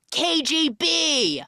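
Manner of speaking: high, slow, hammed-up secret-police voice; mock KGB agent. Daughter pretending to be KGB at the door, hammed-up. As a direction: draw out each letter like a spooky official. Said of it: "pretends to be the K G B".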